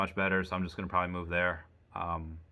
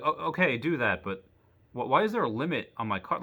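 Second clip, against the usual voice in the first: mock indignant; 4 semitones higher than usual. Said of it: "I didn't say that".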